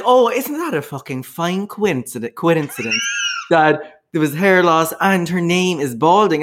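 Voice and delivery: hamming up her outrage at the coincidence; mock astonishment. Telling her friend she just learned the surname, mock outraged. Retelling her own shocked reply.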